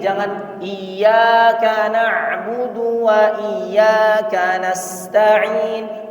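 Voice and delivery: "iyyaka" said with a held, doubled y. Shown as a demonstration. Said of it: "ya-nya tasydid". ("iyyaka" dengan tasydid pada ya)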